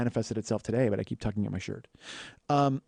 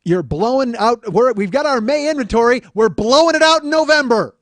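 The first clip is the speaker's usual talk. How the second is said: sales pitch; 10 semitones higher, 10 dB louder than usual. Acted.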